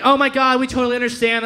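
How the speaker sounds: over-polite apology. Acted. Polite crackheads to a departing guest, imitated over-politeness. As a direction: gush politely as if caught being rude.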